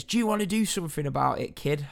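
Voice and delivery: a hint of a bad promoter impersonation; toned-down mock challenge from the boss; Vince McMahon. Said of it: "that's bad Vince McMahon accent".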